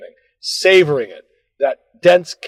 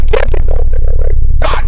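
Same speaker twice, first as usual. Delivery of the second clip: inner whine; 11 dB louder than usual. Retold or imitated. Arguing with himself over donut.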